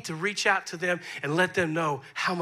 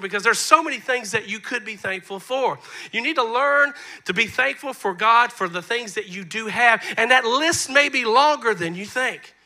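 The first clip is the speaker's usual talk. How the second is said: insistent, raised preaching voice; 4 semitones higher, 5 dB louder than usual. Real, not acted. Pastor urging church to live in thanksgiving, earnest preaching. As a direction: press the point on the congregation.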